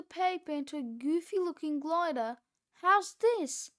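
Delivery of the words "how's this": high, loud anxious ask; screamed question. A narrator's reading. Cheeseball showing Fluffy his glider, screaming. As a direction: shout it up for approval. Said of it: "he screamed".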